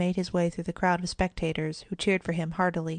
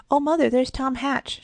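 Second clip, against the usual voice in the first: put-on higher, louder excited girl's cry; 7 semitones higher, 5 dB louder than usual. A narrator's reading. Kitty to her mother on spotting Tom, excited cry. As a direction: cry out to point someone out. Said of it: "she cried a moment later".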